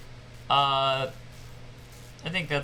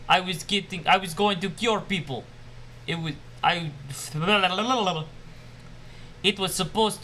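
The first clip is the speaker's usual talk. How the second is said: hammy fake Russian scientist; bad Russian accent, mad scientist. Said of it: "my crappy Russian accent".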